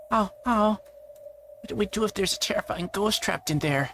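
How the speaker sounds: high startled oh oh, then a scared little question; frightened squeal. Acted. Girl afraid of a ghost behind the storage door, high frightened squeal.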